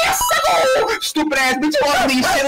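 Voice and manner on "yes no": high-pitched mock game squeal; hammed-up cartoon yelp; cartoon game creature. Mimicking a video game creature.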